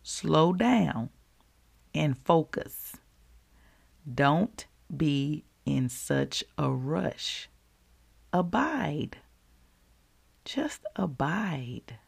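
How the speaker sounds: slow, with long pauses after 'Slow down', 'focus', 'rush'; softening to a hushed 'Just abide'; pausing for emphasis. Retold or imitated. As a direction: let 'Abide' stand alone between silences. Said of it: "I'm pausing for emphasis right now".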